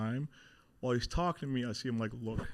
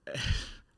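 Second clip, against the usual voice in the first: nervous laugh. Real, not acted. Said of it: "a nervous laugh".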